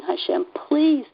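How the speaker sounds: half-sobbed prayer, begging please; reliving a tearful plea to God, pitch climbing on each please; retold sobbing plea. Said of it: "sobbing and saying".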